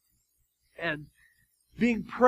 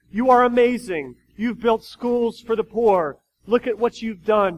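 cheering crowd voice; 2 semitones higher, 6 dB louder than usual. Retold or imitated. Crowd praising the philanthropist.

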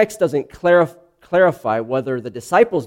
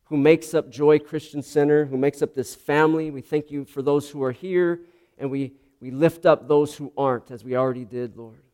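prayer. Acted. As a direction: pray it aloud to the congregation, unhurried. Opening prayer before the sermon.

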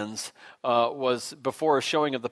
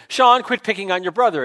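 raised, high mock-scolding call; retold scolding; 6 semitones higher, 7 dB louder than usual. Mom to son from another room, imitated scolding shout. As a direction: call out like a cross mother.

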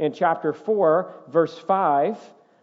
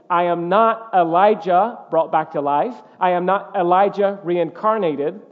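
emphatic denial; 3 dB louder than usual. Retold or imitated. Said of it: "he states emphatically".

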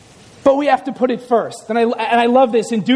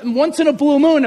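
normal talking voice

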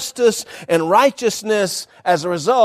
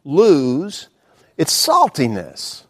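puzzled question; 2 semitones lower, much slower than usual. Retold or imitated. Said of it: "I thought".

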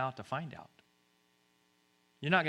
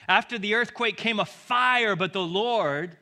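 very loud, high proclamation; thundering scripture reading; 7 semitones higher, 9 dB louder than usual. A narrator's reading. Preacher reads of the fire to congregation, thundering. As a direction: build the fire to a shout.

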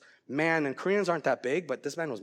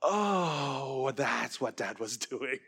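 laughing; much slower than usual. Retold or imitated. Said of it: "where I was like".

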